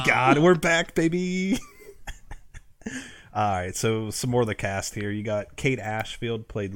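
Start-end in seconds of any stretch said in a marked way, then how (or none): 0.0-1.6 loud, high whoop of triumph; excited shout. Real, not acted. Host cheering that the podcast is back, excited shout. Celebrating the show surviving. 1.6-3.3 a breathless squeal of a laugh. Real, not acted. Host laughing after cheering the comeback, squealing laugh.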